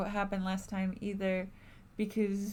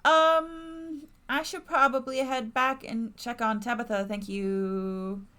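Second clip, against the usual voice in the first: high character voice; 5 semitones higher, 5 dB louder than usual. Acted. Voicing Sybil answering Gretchen.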